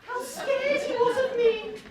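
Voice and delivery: laughing. Acted. Boasting while laughing.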